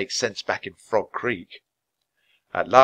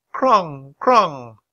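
raised, ringing falling notes; bell-like raven call; 6 semitones higher, 6 dB louder than usual. A narrator's reading. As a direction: let each call ring like a bell. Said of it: "made soft bell-like sounds".

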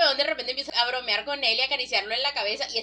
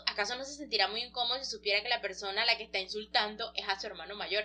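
softly voiced private thought; quiet musing, kept to oneself; retold inner thought; 2 semitones lower, 6 dB quieter, faster than usual. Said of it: "el otro está pensando".

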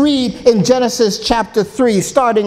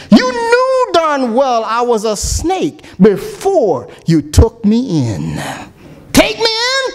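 dramatic song recitation. Acted. Preacher reciting the snake song to his congregation, dramatic storytelling. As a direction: recite the verses like a storyteller from the pulpit.

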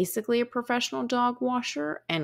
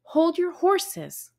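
dad's voice; 6 semitones higher, slower than usual. Retold or imitated. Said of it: "my dad says".

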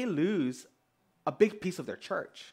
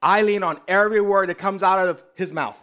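loud, higher-pitched caricature of devotion; mock devoted follower; 4 semitones higher, 10 dB louder than usual. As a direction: overdo the gushing churchgoer. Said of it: "everyone was like".

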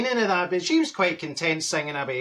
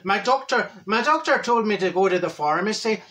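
remembered, deliberately put-on Irish accent; lightly lilting mock-Irish voice; 3 semitones higher than usual. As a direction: switch back into stage Irish. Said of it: "oh, do the accent".

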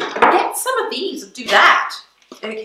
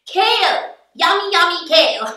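excited announcement; 3 semitones higher than usual. Acted. Presenting kale with gusto.

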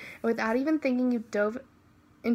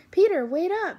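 higher, louder call after him; 7 semitones higher, 6 dB louder than usual. Acted. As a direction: shout to stop him as he runs. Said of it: "you yelled".

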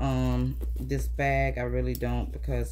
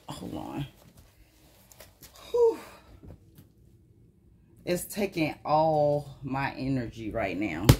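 breathless while talking; winded from the effort; out of breath. Real, not acted. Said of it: "if I sound out of breath, yeah, I am".

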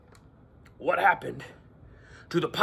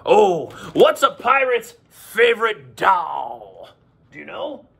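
slow pirate drawl; slow, drawn-out pirate voice; slower than usual. Acted. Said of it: "I like my pirate voice".

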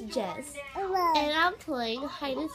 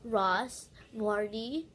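Sky impression; 3 semitones lower, much slower than usual. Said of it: "Sky's Minecraft".

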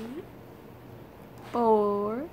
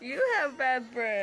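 laughing; 4 dB quieter than usual. Real, not acted. Laughing at partner.

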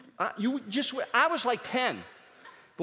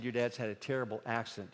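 grave mom; 4 semitones lower, 7 dB quieter than usual. Retold or imitated. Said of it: "She said".

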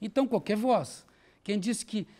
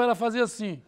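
normal talking voice

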